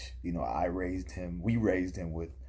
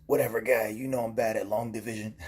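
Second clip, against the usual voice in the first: loud, higher, imitating a nervously laughing friend; stress laugh; 4 semitones higher, 6 dB louder, faster than usual. Fat Boy brushing off his bad math, mock stress laugh. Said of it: "Fat Boy stress laughs and goes".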